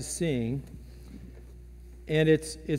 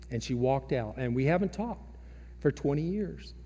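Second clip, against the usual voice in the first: softer, subdued retelling of an estranged mother's hurt; pained; 3 semitones lower, 5 dB quieter than usual. Retold or imitated. Parishioner tells pastor of her estranged daughter, quietly pained. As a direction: let a mild pain weigh the words down quietly. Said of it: "hear the pain in her voice".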